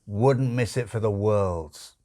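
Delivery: slow, lightly voiced dry demon; a hint of a wry drawl; Crowley, dry demon. Demon answering the angel, slow and lightly wry.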